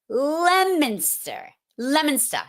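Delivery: Leominster said as "LEM-in-ster"; local pronunciation. Shown as a demonstration. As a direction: Leominster with the first syllable "lem". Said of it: "You go to Leominster".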